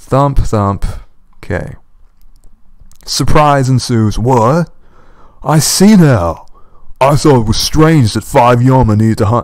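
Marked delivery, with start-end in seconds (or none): 5.4-9.4 creature's monster voice. Narrating a sword fight and speaking as one of the yama, yama voice. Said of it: "I'm doing the yama voices".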